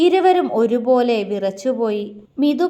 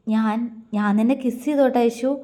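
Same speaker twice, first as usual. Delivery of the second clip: longing, tender. Acted. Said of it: "അവൻ പ്രണയാതുരമായി ചോദിച്ചു".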